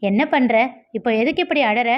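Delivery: gently acted rebuke; mild scolding. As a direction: chide a crying friend, understated. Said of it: "Nitish அதட்டினான்".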